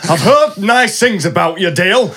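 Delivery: slow put-on Yorkshire voice, a hint of it; lightly voiced Yorkshire auntie, drawn out; mild Yorkshire impression; mock Yorkshire auntie. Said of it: "that's not her accent at all".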